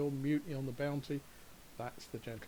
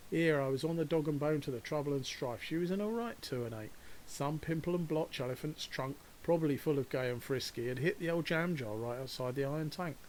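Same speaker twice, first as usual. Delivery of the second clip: broad Cockney slang recital, a bit raised; Cockney rhyming slang. Shown as a demonstration. Guide showing visitors a Cockney slang sentence, lightly Cockney. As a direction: rattle it off like a London local. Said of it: "Cockney rhyming slang".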